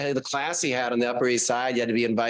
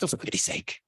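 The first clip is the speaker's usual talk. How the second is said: soft, affected Upper East Side British; hushed mock-British affectation; affected British accent; 2 semitones lower, 6 dB quieter than usual. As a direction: imitate his weird affected British accent. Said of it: "I wanna say it in a British accent".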